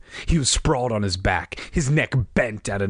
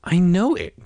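curt, loud retort; sharp reply; 8 semitones higher, 3 dB louder than usual. A narrator's reading. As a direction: snap back. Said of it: "Greg replied sharply".

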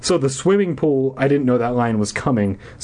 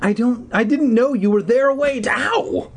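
desperate pleading; 11 semitones higher than usual. A narrator's reading. Girl chases woman, stumbles.

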